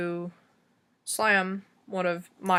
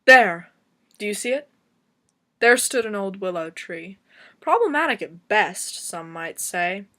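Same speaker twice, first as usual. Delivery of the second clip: dramatic recitation with hard-hit openings; slam poetry; 3 dB louder than usual. Acted. Poet recalling grandpa's old willow tree, dramatic slam poetry. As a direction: punch the first word, then settle into verse.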